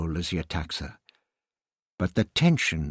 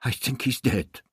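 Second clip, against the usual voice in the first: remorseful; 3 semitones higher than usual. A narrator's reading. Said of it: "the doctor replied in remorse".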